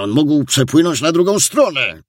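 high, pressing plea to hurry; anxious urging. A narrator's reading. Worried onlookers urge the captain to hurry, anxious. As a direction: urge them on, pitch climbing very high. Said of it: "Sierżant Antczak niepokoił się".

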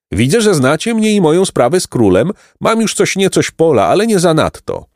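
high, animated voice of a smiling farmer; self-satisfied peasant. A narrator's reading. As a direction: play a chatty peasant pleased with himself.

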